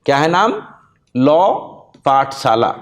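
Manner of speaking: Law पाठशाला announced with a pause after लॉ; announcing the name. Shown as a demonstration. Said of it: "ध्यान से नाम सुन लीजिए". (चैनल का नाम ज़ोर देकर बताना)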